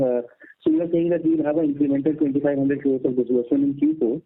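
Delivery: faint voice far from the mic; distant phone line. Real, not acted. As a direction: sounds distant on a bad line. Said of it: "clearer or closer to the mic".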